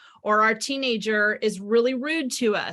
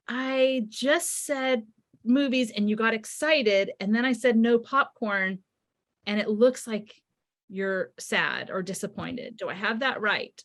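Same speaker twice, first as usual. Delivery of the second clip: curious, empathetic. Shown as a demonstration. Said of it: "say with curiosity".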